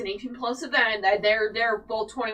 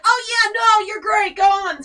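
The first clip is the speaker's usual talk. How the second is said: much higher, louder, bright-voiced agreement; cheerful strangers; 11 semitones higher, 10 dB louder than usual. People in line cheerfully tell her to go. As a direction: play the friendly folks in line waving her off.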